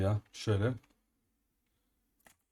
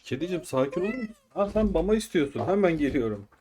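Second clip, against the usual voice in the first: sweet talk to cat; 6 semitones higher than usual. Real, not acted. Talking to his cat.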